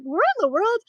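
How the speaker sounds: loud, high amazed cry; amazed outburst. Retold or imitated. Mother retelling her amazement at her son's British accent, loud and high. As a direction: exclaim it in disbelief.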